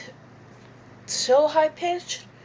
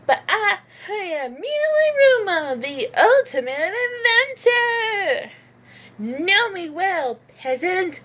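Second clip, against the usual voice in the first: put-on much higher, brash crude girl; Miu Iruma voice; 5 semitones higher than usual. A brash inventor teasing a boy, high and crude. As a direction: go high and brazen. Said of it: "pretending to sound like her".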